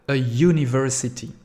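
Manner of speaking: "A university" with a y sound at the start, yoo-niversity; "university" begins on y, not a vowel. Shown as a demonstration. Teacher shows students the y sound at the start. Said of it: "le premier son, c'est le Y".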